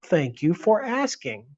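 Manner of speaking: stilted, slow recording voice; overly formal with an off cadence; super formal, slow. Retold or imitated. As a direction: drag it out like a formal language tape. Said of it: "super formal, super slow, the cadence is off".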